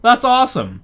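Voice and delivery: high, excited disbelief; surprised. Real, not acted. Reacting to free cookies, high amazed disbelief. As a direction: sound amazed at the news.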